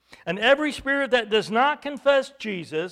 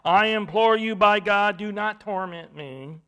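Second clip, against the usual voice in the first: moderately raised, imploring shout; loud voice; 7 dB louder than usual. Acted. Possessed man imploring Jesus, in a raised loud voice. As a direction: call it out loudly, easing at the end. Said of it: "shouting with a loud voice".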